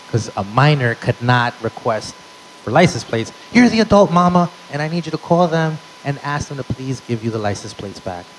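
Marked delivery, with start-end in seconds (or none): 3.5-8.2 begging son. Retold or imitated. Son begging mom to call.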